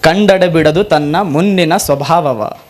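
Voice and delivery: slow, measured devotional recitation; recited vachana. Acted. Preacher reciting Basavanna's plea to the Lord, slow and measured. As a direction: intone each phrase like a prayer to Kudala Sangama. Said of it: "Basavanna ಅಂತಾನೆ".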